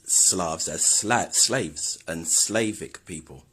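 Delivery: Slavs drawn out slowly, sliding into slaves; slow pronunciation demo. Shown as a demonstration. Explaining how Slavic people pronounce Slavs, slow and deliberate. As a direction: say Slavs slowly, letting it blur toward slaves. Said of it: "Slavic people pronounce".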